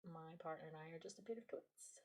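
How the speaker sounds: hushed, breathy self-mocking whisper; whispered confession. Real, not acted. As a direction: let it slip out like a secret.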